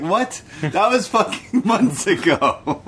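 high, slow, incredulous, laughing through it; mock disbelief. Retelling his own reaction to the show, high and incredulous. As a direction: act shocked at how stale the news is. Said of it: "I'm like".

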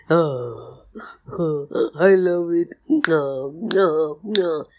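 hushed delight over honey; baby bear enraptured. Acted. Baby bear spots dripping honey, savouring it. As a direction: savour it in little drawn-out sighs.

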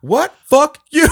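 high, loud, through laughter; laughing mock swear. Retelling the dad's swearing, laughing loudly. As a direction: laugh while cursing. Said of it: "he goes".

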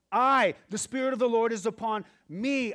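Spirit of the Lord proclaimed loud and high, leaning on I; bold declaration. Acted. Jesus claims the scripture before the synagogue, loud. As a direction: declare it as your own claim. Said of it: "Jesus sits down and says".

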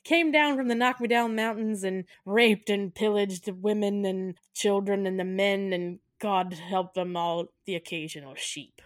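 put-on Irish accent. Bus driver telling tourists local legends, mock Irish accent. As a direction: attempt an Irish brogue, easing down at the end. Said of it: "stop watching movies with accents".

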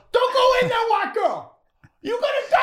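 very high, loud mock shriek; hammed-up horror-audience panic; yelling at the film. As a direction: scream a warning at the movie screen. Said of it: "yelling at the film".

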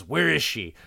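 a worried man calling out for her; urgent, frantic questions; panicked hero. Retold or imitated. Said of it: "he goes".

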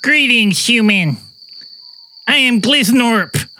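alien voice. Acted. Voicing an alien visitor.

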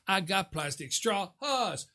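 quiet slow brag; hushed gloat. Pretend. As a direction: murmur the boast. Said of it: "repeated taunt".

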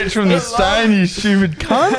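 rowdy, swearing fake hotel bloke; brash prank caller. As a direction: barge in with a mock-rough matey voice. Second caller puts on rough character.

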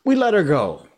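high, loud, self-satisfied pirate voice; complacent Smee. Acted. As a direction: say it as if it's obviously fine. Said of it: "Smee answered complacently".

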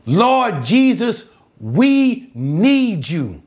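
slow, drawn-out preacher's plea. Acted. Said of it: "they cried even the louder".

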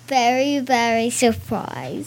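a hint of Accent Girl's accent. Accent Girl answers the host's question, lightly put-on accent. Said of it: "I wanna talk a little bit to Accent Girl".

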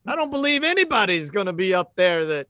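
a concerned camp hand; cowboy voice. Acted. GM voices camp man Jim.

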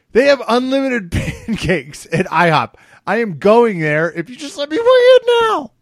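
high, mounting comic outburst; hammed-up desperate athlete. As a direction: build from excited pleading to a high, loud cry. Voicing hungry athlete begging to weigh in.

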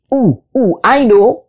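high, eager shout of a know-it-all. A narrator's reading. Anansi shouting that he knows the answer, high and eager. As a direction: call out like a child sure of the answer. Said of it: "shouted Anansi".

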